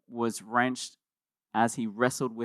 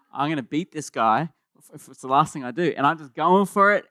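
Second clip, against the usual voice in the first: louder, pumped-up retelling of going all out; all-out effort; 7 dB louder than usual. Retold or imitated. Preacher recalling his jiu-jitsu match, louder and pumped up. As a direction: push it like you're determined to win.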